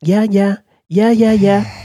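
high, loud, peppy yeahs; put-on young star voice. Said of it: "She's got, like, a higher pitched voice".

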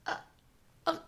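high, sheepish little voice; timid request. Retold or imitated. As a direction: ask for a refund awkwardly. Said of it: "I was like".

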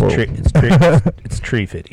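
light mock Russian accent, tree for three; a hint of a Russian accent. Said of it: "in a Russian accent".

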